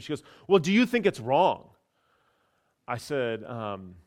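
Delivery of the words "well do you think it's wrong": imitating an insistent woman, pitch raised; pushy questioning. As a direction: press the question in a higher voice. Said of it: "kept pushing me and pushing me".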